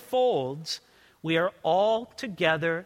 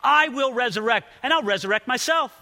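voicing Jesus; 5 semitones higher, 5 dB louder than usual. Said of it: "Then Jesus says".

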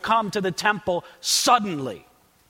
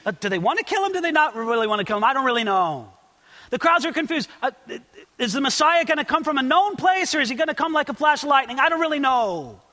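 raised, dithering crowd voice; mock confusion; 3 semitones higher, faster than usual. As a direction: waver between the questions, lightly imitating bafflement.

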